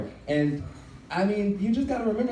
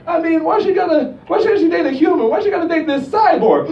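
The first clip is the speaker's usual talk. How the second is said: put-on higher, louder grumpy old man; a crotchety great-grandfather ranting; 11 semitones higher, 6 dB louder than usual. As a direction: complain about the cyborg. Grandfather voiced in retold scene.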